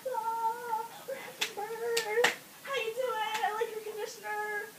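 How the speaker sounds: high, sing-out cheery doctor voice; mock-cheerful bedside greeting; chipper doctor. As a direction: chirp it like an oblivious, upbeat doctor. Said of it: "Chipper is the bee's knees".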